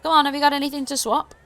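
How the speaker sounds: high, loud goblin sales call; loud goblin hawker. Acted. Goblin pressing the party to swap, loud and high. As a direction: bark it out like an eager goblin trader.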